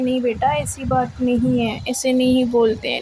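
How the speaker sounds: quietly reassuring mother voice; soothing mother. Retold or imitated. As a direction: hush her kindly as her mom. Mother soothing upset daughter.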